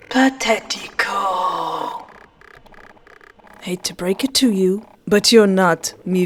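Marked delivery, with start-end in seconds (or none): 0.1-1.8 sneering. Acted. Villain sneers in Spanish.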